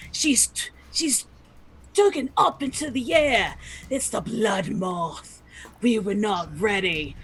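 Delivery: put-on light Australian accent. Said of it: "Steve Irwin the Noblin".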